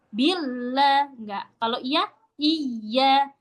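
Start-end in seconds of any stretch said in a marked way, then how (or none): 0.1-1.1 "Bila" with a long l, pitch kept level; voice not raised. Shown as a demonstration. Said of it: "nggak sampai yang naik suaranya". 1.8-2.1 slow "iya", slightly raised but not overdone. Shown as a demonstration. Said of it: "naikin suaranya".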